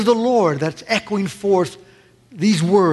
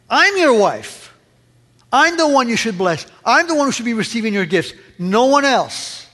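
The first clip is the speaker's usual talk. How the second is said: resentful wife; 4 semitones higher than usual. Acted. Wife confronting a husband gracious to another woman, resentful. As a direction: insist you are the one owed, hurt and bitter.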